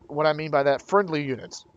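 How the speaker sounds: talking through hiccups; speaking with the hiccups. Real, not acted. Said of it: "Got the hiccups".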